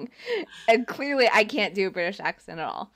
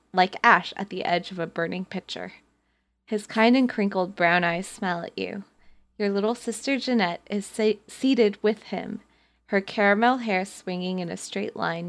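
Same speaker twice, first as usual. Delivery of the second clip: story narration. A narrator's reading. Reads the story aloud.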